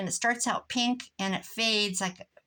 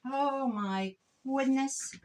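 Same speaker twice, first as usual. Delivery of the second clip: exasperated sigh; 4 semitones higher, much slower than usual. Real, not acted. Can't find her tools.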